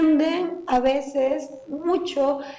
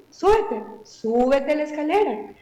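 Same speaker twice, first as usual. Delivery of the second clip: sarcastic; 3 semitones higher than usual. Shown as a demonstration. Mother sarcastically dares toddler up the stairs, mocking. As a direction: tease the child with false permission. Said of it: "no va a comprender que es sarcasmo".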